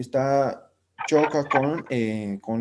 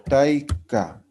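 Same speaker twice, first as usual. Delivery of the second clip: slow model word. Shown as a demonstration. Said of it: "taika es vieja".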